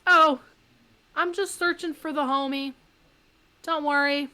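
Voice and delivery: mild shout back. Retold or imitated. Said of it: "the guy kinda shouts back".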